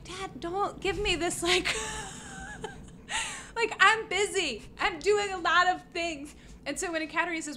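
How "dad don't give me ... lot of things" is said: higher, whining protest to dad; a pleading, exasperated don't-bother-me; whiny brush-off. Retold or imitated. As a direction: wave him off like a busy, put-upon kid. Brushing off her dad's papers.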